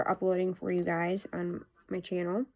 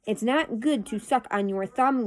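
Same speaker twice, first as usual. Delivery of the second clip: measured, more separated words after a stumble; careful retake. Real, not acted. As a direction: say it over deliberately, word by word. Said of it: "I can't talk again".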